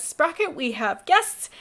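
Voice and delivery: bright call across the house. Acted. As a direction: call the dog in from another room. Calling the dog into room.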